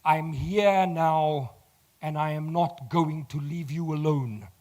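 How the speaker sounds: slow, steady, firmly reassuring; reassuring promise. Retold or imitated. Instructor promising the panicking oak he stays. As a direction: hold him with each word. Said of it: "And he says".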